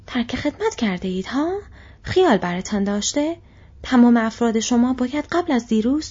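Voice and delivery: growling orc. Acted. Orc threatening the deserters with report, growling. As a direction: growl it out, menacing and bullying. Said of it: "خورخور کنان گفت".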